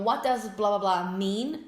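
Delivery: slow, clear model sentence; slow template. Shown as a demonstration. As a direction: present the pattern slowly. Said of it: "Então".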